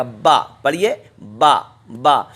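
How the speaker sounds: "با" with both lips pressed together on the b; lips fully pressed. Shown as a demonstration. Teacher demonstrates lip contact, firm two-lipped "با". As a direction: close the lips completely, then open into a long "با". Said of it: "آپس میں بالکل مل جائیں گے".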